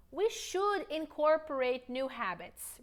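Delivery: slow, clear model sentence; deliberate teacher pacing; slow model line. Shown as a demonstration. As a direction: model it slowly to repeat.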